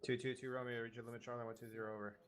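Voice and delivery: over walkie talkie. Real, not acted. Radio call on game net.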